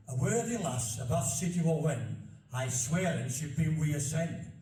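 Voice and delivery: steady broad Yorkshire recital; measured Barnsley reading; careful dialect reading. Shown as a demonstration. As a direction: get the old verse right in dialect. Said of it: "I've got to get this right".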